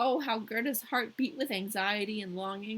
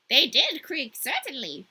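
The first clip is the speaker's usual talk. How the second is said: a lightly voiced chatty crow, higher; 4 semitones higher, 9 dB louder, slower than usual. The crow answering Gerda in a light crow voice. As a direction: croak it out as a talkative crow. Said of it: "difficult to enunciate in this voice".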